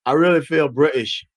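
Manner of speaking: lightly attempted Cockney accent; fake Cockney accent. Would-be voter showing up in England, fake Cockney accent. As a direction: put on a half-hearted fake Cockney. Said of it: "I try to have a fake Cockney accent".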